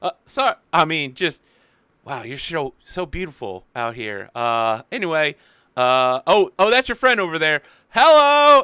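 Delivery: put-on high, loud childlike voice of a big man; gentle giant. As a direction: ask politely like an overgrown kid. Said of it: "like, drops a couple inches".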